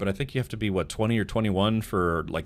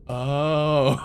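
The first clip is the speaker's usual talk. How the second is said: embarrassed laughing; 5 semitones higher, 6 dB louder than usual. Retold or imitated. Realizes the coins are casino coins.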